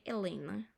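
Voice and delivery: "Elena", Atlanta with its Ts swallowed; American reduced Atlanta. Shown as a demonstration. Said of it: "Otros dicen".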